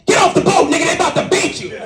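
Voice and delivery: shrill paranoid version of the call. Retold or imitated. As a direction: voice jumps way up in alarm. Paranoid mishearing of friend.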